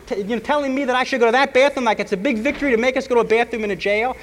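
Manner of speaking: high, loud protest to the judge; shouting back at the prosecutor in court, indignant; indignant outburst. Retold or imitated. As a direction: yell your outrage up at the bench.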